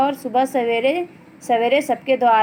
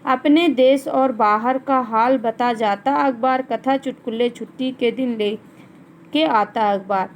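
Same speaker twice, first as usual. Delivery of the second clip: measured classroom poem reading; children's poem recited by a teacher; poem recitation. Acted. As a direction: read the verse out line by line, falling at each close. Reads the poem aloud.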